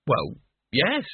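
hesitant, doubtful agreement. Acted. Boy half accepting Death's argument, doubtful. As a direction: agree without being convinced. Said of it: "said Mort doubtfully".

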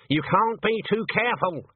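put-on sharp, firm old woman; stern old witch. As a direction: insist it, stern and high. Granny insists on barring door.

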